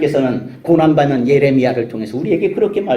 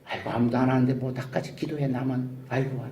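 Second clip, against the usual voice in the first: softer, deflated grumble; weary sigh; 6 semitones lower, 11 dB quieter than usual. Retold or imitated. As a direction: give up with a sigh. Believer giving up on prayer.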